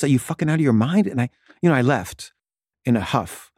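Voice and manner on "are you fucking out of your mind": retold exasperated outburst. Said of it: "just freaking out".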